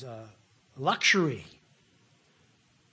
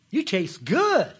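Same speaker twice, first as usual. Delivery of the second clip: drawn-out savoring; 4 semitones higher, 5 dB louder, much slower than usual. Pretend. Savoring in mock delight.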